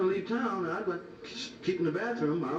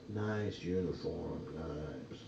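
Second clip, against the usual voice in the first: put-on admiring girls; 13 semitones lower, 7 dB quieter, much slower than usual. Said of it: "girls would take a uniform".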